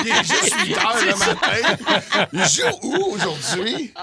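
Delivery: high, slow, laughing imitation; laughing high mock voice. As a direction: ham up her confused question while laughing.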